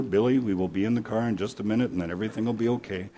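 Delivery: softly trailing, calm reassurance. Acted. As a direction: reassure evenly and quietly. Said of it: "the dad very calmly saying".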